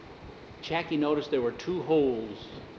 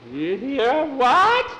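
high, rising scared question; high, louder panicked what; startled; 12 semitones higher, 8 dB louder than usual. Acted. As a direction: jump at the dark. Startled boy in the dark.

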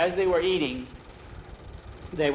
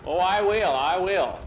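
high, loud, relishing promise; eager assurance; 4 semitones higher, 5 dB louder than usual. Acted. Upperclassman assures teacher about the initiation, relishing assurance. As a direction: promise it with too much relish.

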